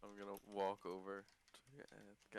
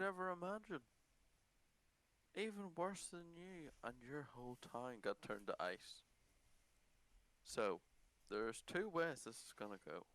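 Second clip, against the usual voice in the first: menacing interrogator; 3 semitones higher than usual. Acted. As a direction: lean in and threaten. Interrogating the captive in character.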